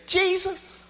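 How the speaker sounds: high, shouted call across the water; excited calling out. Acted. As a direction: cry out in eager recognition, slowly. Peter calls out to Jesus.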